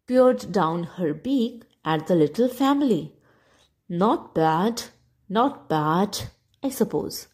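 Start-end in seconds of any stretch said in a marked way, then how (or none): 3.9-7.3 haughty. Acted. Spanish duck judges the family with mild haughty disdain. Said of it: "she quacked haughtily".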